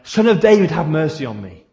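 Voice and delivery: shouting out. Acted. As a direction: shout the name out, then ease off. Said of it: "quiet you from shouting out".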